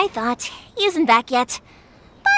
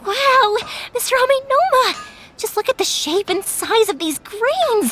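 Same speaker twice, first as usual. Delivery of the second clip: amazed delight; 4 semitones higher than usual. Acted. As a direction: gasp it out in admiration. Admiring master's finished ore grains.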